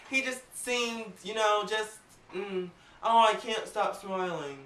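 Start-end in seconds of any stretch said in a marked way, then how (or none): 3.0-4.6 mock monotone. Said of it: "sounded kinda monotone".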